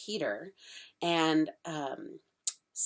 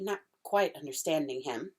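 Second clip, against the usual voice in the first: ordinary delivery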